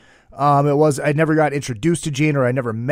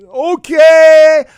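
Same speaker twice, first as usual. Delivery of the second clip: loud, high sheepish okay; high deflated okay; 12 semitones higher, 11 dB louder than usual. Retold or imitated. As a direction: squeak it out, crestfallen. Deflated fan reply.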